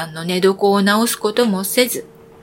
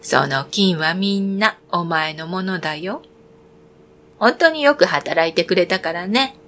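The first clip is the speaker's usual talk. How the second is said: put-on kind old woman; 2 semitones lower than usual. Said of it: "惚れおばさんは言いました".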